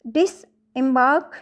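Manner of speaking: "डिसएम्बार्क" in separated parts, weight on "बार्क"; third-syllable stress. Shown as a demonstration. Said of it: "यहाँ third syllable के ऊपर है". ("डिसएम्बार्क" में "बार्क" पर ज़ोर)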